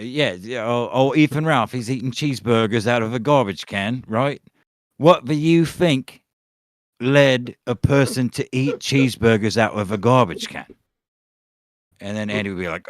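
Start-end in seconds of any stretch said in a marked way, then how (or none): 0.0-10.7 put-on rough Australian-leaning British accent; mock British impression. Fake interviewer putting a question to a guest, mock British accent. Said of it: "it's like Southie London".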